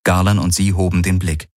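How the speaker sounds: plain reading voice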